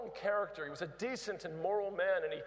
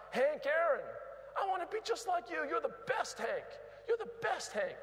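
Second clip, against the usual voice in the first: screaming fan; 9 semitones higher than usual. Retold or imitated. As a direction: cry out to Hank like a starstruck fan. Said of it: "he'd scream from the crowd".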